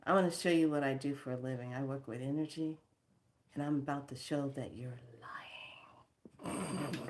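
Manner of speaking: low-key, hushed acted warning; quiet menace. Telling the key guy she will expose him, quietly menacing. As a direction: drop it soft, dragging the last word.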